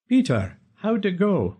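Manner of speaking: father voice. Acted.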